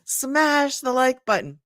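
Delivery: imitating her son. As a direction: mimic your son's slow, emphatic catchphrase. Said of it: "my son says".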